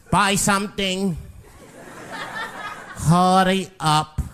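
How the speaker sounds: a hint of a growling shopkeeper, slow; lightly voiced grumpy store owner; Mister Fong growling. Shopkeeper growls at the customer, mild mock growl. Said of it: "growls at me".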